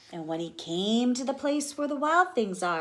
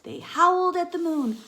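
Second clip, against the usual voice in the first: high, loud and excited; playful excitement; 11 semitones higher, 6 dB louder than usual. Acted. Teacher reading the rumpus, high and excited. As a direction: get the kids thrilled.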